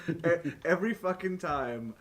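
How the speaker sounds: slow, loud, high exasperated stress; exasperated emphasis. Real, not acted. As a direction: drag it out in disbelief. Exasperated complaint about his friend.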